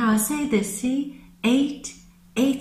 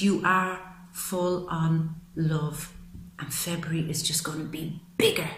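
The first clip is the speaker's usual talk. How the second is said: emotional whisper; 4 semitones lower, 7 dB quieter than usual. Real, not acted. Moved by her viewers' support, a teary whisper. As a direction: hush the words as emotion takes over. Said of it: "I'm getting emotional".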